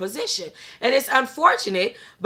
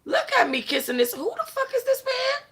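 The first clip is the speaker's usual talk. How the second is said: mock disbelief at herself; 3 semitones higher, 4 dB quieter than usual. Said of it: "I'm still looking at me like".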